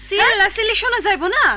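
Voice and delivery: aggrieved daughter-in-law accusing; angry. Acted. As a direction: answer back in a temper. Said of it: "এত রাগ দেখাও কেন".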